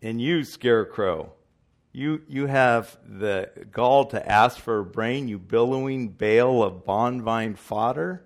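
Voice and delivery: loud booming wizard. Retold or imitated. Wizard mocking the Scarecrow, loud and booming. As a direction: sneer at him like a mighty wizard. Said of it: "says the wizard".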